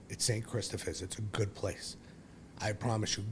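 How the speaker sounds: consoling. Retold or imitated. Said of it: "she consoled me and said".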